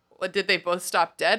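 lightly voiced confused husband; puzzled husband. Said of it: "he's like".

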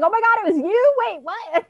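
high, startled imitation; mock shock. Imitating Cooper stunned by the arrest. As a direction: gasp it out high in disbelief. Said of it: "Cooper's like".

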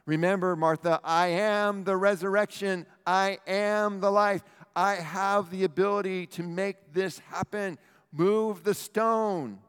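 high, loud, slowed proclamation; Jesus proclaiming. Acted. Jesus answering Martha, loud and commanding. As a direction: declare it with divine authority.

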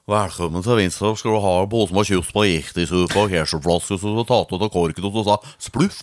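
rambling imitation of Vinstra dialect. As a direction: run it together like an incomprehensible Vinstra local. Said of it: "Der er det vanskelig å forstå hva de snakker".

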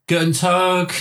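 a hint of Cockney on Guten Tag; Cockney German. Mocking a Cockney German teacher, Cockney-accented German. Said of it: "the funniest way of".

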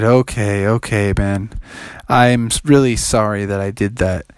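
a caught thief saying sorry; sorry frog. Acted. Froggy apologises.

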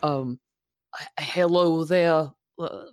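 politely hesitant, formal character voice; genteel lady Magma. Acted. Magma greeting a halfling stranger, genteel and hesitant. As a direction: make a mannered, courteous introduction.

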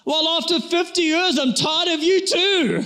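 lightly voiced old wife tired of husband; old wife mishearing. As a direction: play the deaf old wife, pleased. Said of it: "she looks at him and goes".

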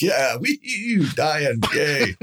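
high, singsong fake celebration; hammed-up gleeful "yay"; mock cheering. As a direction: cheer a grim thing like a kid's "whee".

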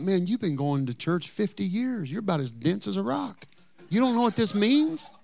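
high-pitched, incredulous retold thought; mock exasperation. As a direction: act out disbelief at someone's cluelessness. Retelling his exasperated thought at somebody.

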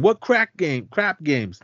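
high-pitched mock yell; retold yelling. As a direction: imitate an incredulous dad yelling. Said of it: "He starts yelling".

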